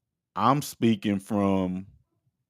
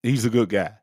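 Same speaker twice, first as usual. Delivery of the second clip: mild Pope impression; faster than usual. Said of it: "being like".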